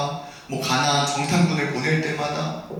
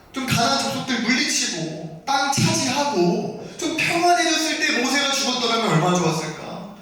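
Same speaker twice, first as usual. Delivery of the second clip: anxious inner voice; 4 semitones higher than usual. Acted. Joshua fretting over leading after Moses died, anxious inner voice. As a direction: think aloud as a worried successor. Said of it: "그런 두려운 마음들이".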